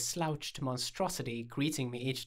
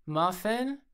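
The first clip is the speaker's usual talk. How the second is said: higher, rising name; coaxing call; 7 semitones higher, 4 dB louder than usual. A narrator's reading. Owner testing the name on the dog, coaxing. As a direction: call a pet hopefully, pitch climbing.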